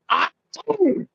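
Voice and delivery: high-pitched fake sneeze; German-style sneeze. Shown as a demonstration. Offering another German sneeze, high fake sneeze. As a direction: squeal out a mock German sneeze. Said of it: "or something like".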